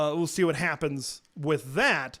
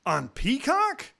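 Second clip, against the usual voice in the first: mock incredulity. Fans reacting to the Peacock broadcast, mock incredulous. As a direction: scoff at the network pick. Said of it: "everybody's like".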